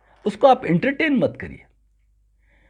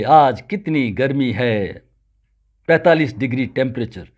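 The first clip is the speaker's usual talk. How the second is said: retold weary complaint; 8 semitones lower than usual. Someone sitting idle remarks on the heat, mock weary complaint. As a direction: imitate someone slackly grumbling.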